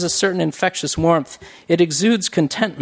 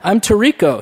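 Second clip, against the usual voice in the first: put-on laughing Jamaican-accented self-introduction; a light, effortful Jamaican accent; 5 semitones higher, 4 dB louder than usual. A narrator's reading. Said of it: "he's speaking with a Jamaican accent".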